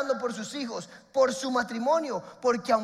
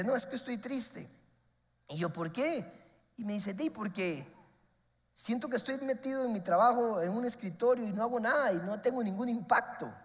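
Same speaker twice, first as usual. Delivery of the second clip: put-on sad young man; 6 dB quieter than usual. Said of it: "lo veo triste".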